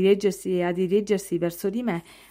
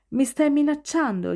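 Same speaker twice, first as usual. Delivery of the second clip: defiant challenge; 7 semitones higher than usual. A narrator's reading. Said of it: "sfidandolo con lo sguardo".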